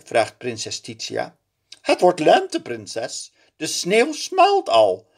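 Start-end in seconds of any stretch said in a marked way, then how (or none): 1.8-5.1 high, louder servant voice. A narrator's reading. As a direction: lakei says it aloud for the princess. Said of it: "zegt hij nu hardop". (nu hardop gezegd)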